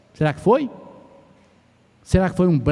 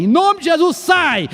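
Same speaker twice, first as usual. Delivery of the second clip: mock shouting at a demon; 8 semitones higher, 3 dB louder than usual. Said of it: "eu vou gritar pra esse problema sair".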